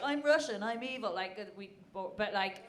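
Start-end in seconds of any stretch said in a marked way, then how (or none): 0.0-1.1 lightly mocking Russian comic, a bit higher; hacky Russian comic. Comic mocking a hacky Russian opener, lightly put-on. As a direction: imitate a hacky act's opening line. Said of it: "come up and be like".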